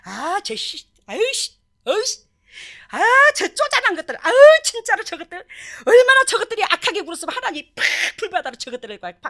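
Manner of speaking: hammed-up high, loud disgust; mock them as a sneering accuser; finger-pointing contempt. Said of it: "맨날 손가락질했거든". (손가락질하며 경멸하는 과장된 말투)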